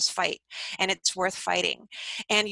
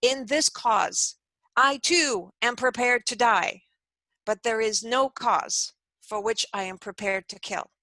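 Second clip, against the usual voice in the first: Gandhi. Retold or imitated. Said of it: "Gandhi stands up and famously says".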